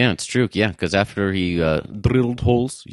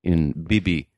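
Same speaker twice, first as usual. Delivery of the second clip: mock Eastern European accent; 4 semitones lower than usual. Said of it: "a Eastern European accent".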